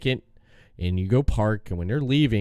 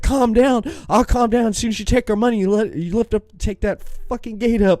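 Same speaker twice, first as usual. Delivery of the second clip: higher, heated mock tirade at the parking staff; retold furious rant; 10 semitones higher than usual. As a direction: go off on the attendants, half-performed. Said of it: "I just went off".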